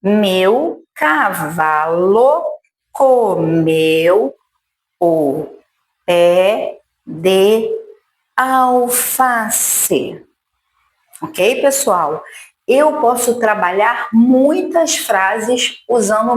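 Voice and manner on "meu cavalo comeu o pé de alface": second slow pass through the sentence; slow review. Shown as a demonstration. Teacher repeating the sentence slowly for the class. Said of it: "Vamos revisar".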